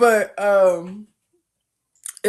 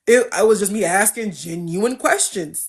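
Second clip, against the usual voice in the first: ordinary talk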